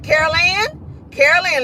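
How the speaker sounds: high, drawn-out mock summons; calling out. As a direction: call the name as if to someone lost. Film quote, calling someone back.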